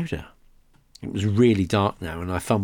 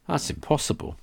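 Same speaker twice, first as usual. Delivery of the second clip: breathy hiss through teeth; 7 semitones higher, 4 dB quieter than usual. Acted. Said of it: "Lucy whispered in a ghoulish voice".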